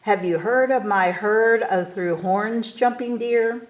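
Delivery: usual speaking voice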